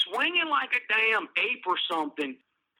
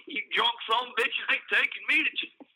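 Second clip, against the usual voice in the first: laughing through quote; 3 semitones higher than usual. Retold or imitated. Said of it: "I'm just picturing it".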